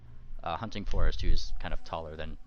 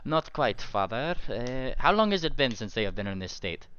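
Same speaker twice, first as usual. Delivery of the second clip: put-on higher accented character voice; earnest follower, pitched up, seeking answers; concerned young follower; 5 semitones higher than usual. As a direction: question father in a high put-on accent. Voices Shen questioning the cleric.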